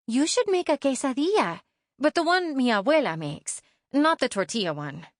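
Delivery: put-on high, keen little-girl voice; a kid pitching her favourite treat to mom; eager young girl. Girl eagerly suggests grandma's quesadilla to mom.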